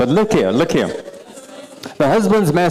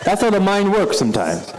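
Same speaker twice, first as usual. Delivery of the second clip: laughing; 10 semitones higher than usual. Real, not acted. Teacher amused that nobody got the riddle, laughing through the words. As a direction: giggle the words out.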